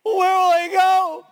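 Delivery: loud, high, slow plaintive shout; high shouted demon voice; demon asking. Retold or imitated. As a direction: wail the question like a cornered spirit. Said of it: "he goes".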